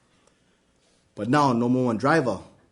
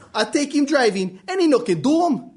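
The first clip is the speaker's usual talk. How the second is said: complaining dad; 11 semitones higher than usual. Acted.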